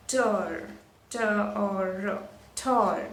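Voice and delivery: tor, then its sounds T O R drawn out, then tor; sounded out. Shown as a demonstration. Teacher showing the last syllable, sounded out. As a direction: sound out tor slowly and blend it back. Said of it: "that's another syllable".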